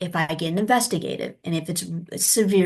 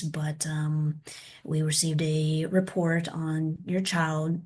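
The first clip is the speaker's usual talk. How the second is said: gentle professional tone; 2 semitones lower than usual. Shown as a demonstration. Social worker calling a parent about a report, gentle and polite. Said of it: "the tone of the voice".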